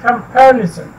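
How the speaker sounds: कंपैरिजन with the weight on PAIR; com-PAIR-ison, second syllable stressed in कंपैरिजन. Shown as a demonstration. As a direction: hit PAIR in कंपैरिजन, then fall away. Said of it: "इसको stress किया जाता है".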